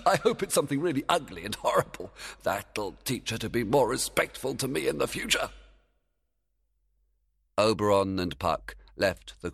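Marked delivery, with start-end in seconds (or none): 0.0-5.5 fairy king voice. Acted. Oberon gloating, laugh.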